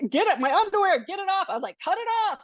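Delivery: frantic demand. Retold or imitated. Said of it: "I just remember being like".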